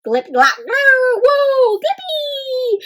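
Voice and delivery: high silly alien chatter; high giggly alien gibberish. Acted. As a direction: babble like a giddy alien.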